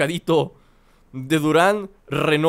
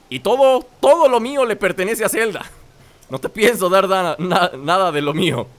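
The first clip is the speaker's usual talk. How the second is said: louder, firm refusal to share; defiant refusal; 4 dB louder than usual. Acted. Refusing a pig's demand, loudly defiant. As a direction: stand your ground, loud.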